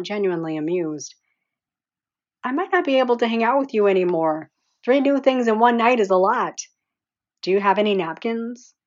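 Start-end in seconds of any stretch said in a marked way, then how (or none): 2.4-8.7 still giggly. Acted. Heroine still giggling, teasing.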